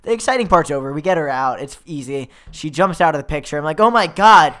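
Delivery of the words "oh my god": acted astonishment, higher and louder; mock amazement. Telling how she jumps out of the picture, mock-astonished. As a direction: gasp it out as a hammed-up reaction. Acts own reaction as she escapes painting.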